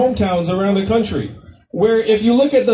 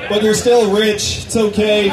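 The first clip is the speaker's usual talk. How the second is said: laughing tease; slower than usual. Real, not acted. Teasing the rich Facebook workers.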